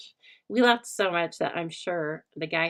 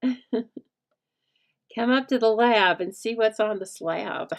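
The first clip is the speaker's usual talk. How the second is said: slow, hammed-up mad-scientist invitation, louder and higher; Rocky Horror line; 3 semitones higher, 4 dB louder, slower than usual. Vlogger teasing her stamping viewers, slow campy horror-host voice. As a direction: drawl it out like a campy horror host, half laughing. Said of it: "my Rocky Horror".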